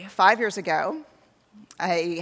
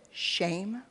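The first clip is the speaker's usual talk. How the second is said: breathless whisper of disbelief; host whispering the taboo word; whispered shock; 5 dB quieter than usual. Retold or imitated. Event host's shocked question.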